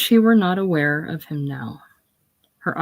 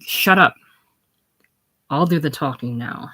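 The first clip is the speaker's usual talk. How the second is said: sharp shut up. Acted. Josie silencing her father mid-word, sharp. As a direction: cut him off hard.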